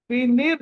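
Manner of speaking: వినిర్ ending on a light half r. Shown as a demonstration. Teacher showing students how to read, వినిర్ with a half r. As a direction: close వినిర్ on r with no vowel after it. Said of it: "అని చదవాలి".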